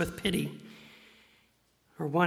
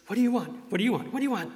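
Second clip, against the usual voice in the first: high, fussy repeated asking; mock repeated question; 5 semitones higher, much faster than usual. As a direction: play a dithering beggar. Mocking hesitant blind men.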